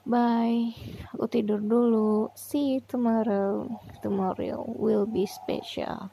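sleepy, slow and drowsy; drifting off to sleep mid-sentence; nodding off. Real, not acted. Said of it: "aku ngantuk banget".

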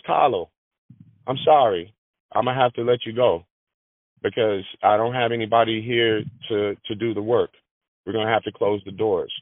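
a light Italian accent, barely put on; lightly imitating an old Italian man's accent. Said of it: "so in his Italian voice".

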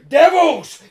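explosive high shout; loud, incensed outcry; crying out. A narrator's reading. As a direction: hurl the word out in outrage. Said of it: "cried the intruder".

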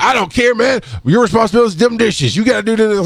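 mock stern partner telling him off; imitating Ronaldo. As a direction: hammer it home like a blunt boss. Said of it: "And Ronaldo's like".

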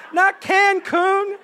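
"Not Cancun" slow and loud, with "Not" hit hard; stress on not. Shown as a demonstration. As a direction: lean on "Not", "Cancun" drawn out and laughing.

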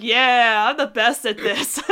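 imitating a smug winner; mock self-satisfied boast, drawn-out yeah. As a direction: play it lightly smug. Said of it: "she looked so smug".

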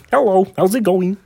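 a hint of the frog puppet; lightly voiced Kermit. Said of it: "speak to Kermit the Frog".

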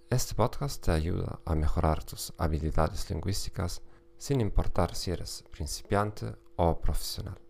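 Spanish spoken with a German accent; German-accented Spanish, careful and steady. Real, not acted. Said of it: "con acento alemán". (español con acento alemán)

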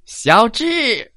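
high screamed name; shrill scream. Acted. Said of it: "传来了一声尖叫".

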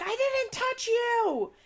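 squeaky high, slow denial; hammed-up indignant squeal; mock defensive denial. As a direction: play him all innocent and high. Quoted argument, he denies it.

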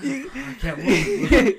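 high, loud, stretched-out laughing wail; hammed-up cry of someone paralysed, through laughter; mock helpless cry. Joking about sleep paralysis, mock helpless cry.

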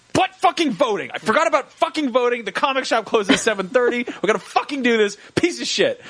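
high mock exasperated rant; frustrated rant. Remembering voting might close the comic shop, mock tantrum. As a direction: throw a little tantrum about voting.

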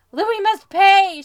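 slow, loud, high yell; hammed-up slow vengeful scream. A narrator's reading. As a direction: roar for revenge. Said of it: "she screamed".

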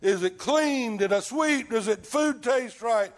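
mildly hammed-up fussing; worried Martha. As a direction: voice mock worry, rattling through a mental checklist. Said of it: "All worried about what the house looks like".

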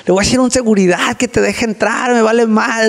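a touch of the angry wife; lightly voiced furious wife; wife threatening to call security, mildly mock angry; mild mock anger. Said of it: "así súper enojada".

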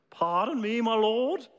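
a hint of English politeness; polite English accent. Preacher voicing Gideon again, faintly English and polite. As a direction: ask it gently, a touch of English accent. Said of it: "Again, very polite".

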